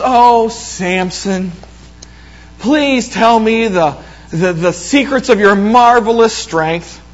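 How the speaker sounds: slow, drawn-out mock pleading; coaxing Delilah. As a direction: lightly act out a wheedling temptress. Voicing Delilah coaxing Samson.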